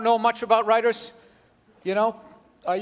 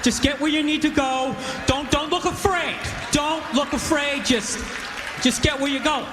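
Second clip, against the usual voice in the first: nervous self-talk; 3 semitones higher than usual. Retold or imitated. White guy coaching himself past a stranger, acted nervousness. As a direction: talk yourself through it, trying not to sound nervous. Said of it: "trying not to be nervous".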